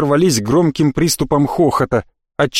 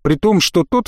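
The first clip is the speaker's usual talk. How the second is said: plain reading voice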